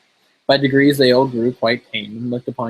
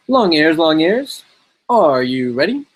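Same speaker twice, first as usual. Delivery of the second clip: slow, higher, louder calling out; umpire call; 4 semitones higher, 4 dB louder, slower than usual. Acted. Deer umpire calls the hare.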